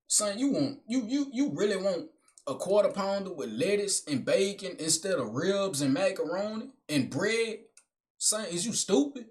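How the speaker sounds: mild mock-stern father; imagined daddy. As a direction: tease the kid like a dad breaking it down. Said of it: "if I was the daddy towards me".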